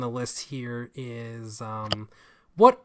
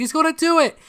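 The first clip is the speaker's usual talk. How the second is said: very high, loud hammed-up cheer; retold cheering; 8 dB louder than usual. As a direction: shout it like the crowd in the ad. Acts out the Xbox commercial cheer.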